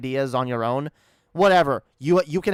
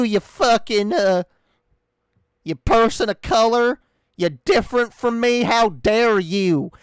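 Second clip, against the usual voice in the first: loud, higher hammed-up racist woman, slowing at the end; mock racist rant; 6 semitones higher, 5 dB louder, slower than usual. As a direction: lampoon her ranting at people, louder and louder. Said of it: "come back and be like".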